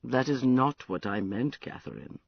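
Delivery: put-on drunken, maudlin confession. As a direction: loose and sorry for himself. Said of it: "Prince, you sound terribly drunk".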